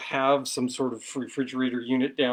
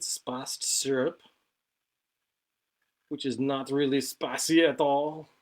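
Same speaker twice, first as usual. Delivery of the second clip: put-on awful French accent. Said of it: "I've gone into a really awful French accent".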